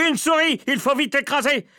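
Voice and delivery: high, loud, urgent outcry; alarmed cry. A narrator's reading. Man urging cooks to crush the mouse, crying out. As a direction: rouse the whole kitchen to attack. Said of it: "criait-il".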